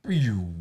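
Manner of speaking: falling pew sound effect; little electronic pew; imitated TV sound. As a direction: mimic a classic TV switching off. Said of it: "Makes that, like, classic, like, T V".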